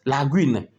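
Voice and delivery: "Lagune" with the u sounded, lagouine; u pronounced. Shown as a demonstration. Teacher models saying "Lagune" with the u pronounced. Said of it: "C'est normal qu'on prononce ça".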